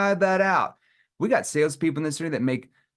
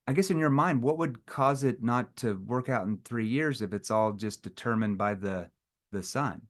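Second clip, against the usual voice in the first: hesitant, puzzled, drifting lower; confused tone; 3 semitones lower, 3 dB quieter than usual. Shown as a demonstration. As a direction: act lost so the prospect feels silly. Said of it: "see, I'm confused".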